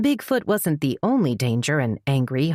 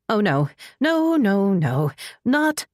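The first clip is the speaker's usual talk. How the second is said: horrified; 5 semitones higher, slower than usual. Acted. Sees coyotes eating flesh.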